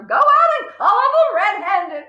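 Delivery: high, pushy command; urgent hiss. Acted. Mother urging her husband to catch burglars, pushy. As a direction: hiss at him to go. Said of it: "hissed the mother".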